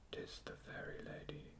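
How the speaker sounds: hushed, voiceless whisper. A narrator's reading. Weary reaper listening by moonlight whispers about the fairy Lady, whispered. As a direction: whisper it very softly, barely audible.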